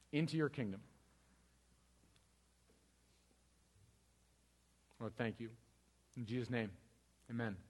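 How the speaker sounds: closing prayer. Acted. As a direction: pray for the congregation, softening toward the amen.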